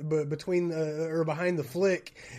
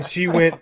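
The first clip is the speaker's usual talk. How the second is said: loud high gasp, sucking air in; teacher gasping as her hand hits the pencil; retold sharp gasp; 12 semitones higher, 14 dB louder than usual. Acting out the teacher's shocked gasp. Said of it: "she almost sucked the air out of the room".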